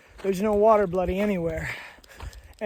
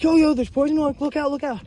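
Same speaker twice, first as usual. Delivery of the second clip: much higher, loud urgent yo yo; calling out a warning; 7 semitones higher, 3 dB louder, faster than usual. Retold or imitated. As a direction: hail a hiker about poison oak. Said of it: "Be like".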